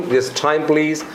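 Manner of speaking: "time please" with an imitated American accent; American accent demo. Shown as a demonstration. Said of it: "दोनों में अंतर होती है". (American accent में "time please")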